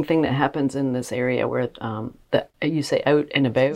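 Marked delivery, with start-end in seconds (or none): 3.1-3.8 Tidewater accent with Canadian-like vowels; a hint of Tidewater Virginia accent. Shown as a demonstration. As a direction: lightly demonstrate Canadian-sounding Tidewater vowels. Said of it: "it's like Canadian shit coming in".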